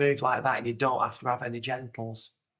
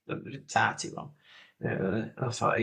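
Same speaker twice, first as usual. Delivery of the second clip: normal talking voice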